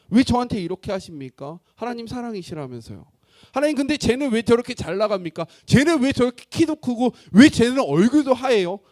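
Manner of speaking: acted grievance, swelling to loud; resentful complaint. Young man comparing himself to others before God, building resentful complaint. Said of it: "원망하기 시작했습니다".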